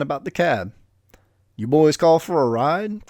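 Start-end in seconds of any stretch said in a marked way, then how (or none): 1.5-3.1 a touch of a croaky chain-smoker, slow; mild croak. Acted. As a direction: lightly croak it out like an old smoker. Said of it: "croaked a three-pack-a-day voice".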